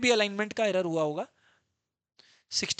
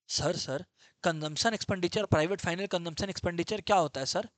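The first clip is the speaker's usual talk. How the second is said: a hint of a meek pupil, softer and lower; student voice; 4 semitones lower, 4 dB quieter than usual. Student asking the teacher what consumption expenditure means, lightly voiced.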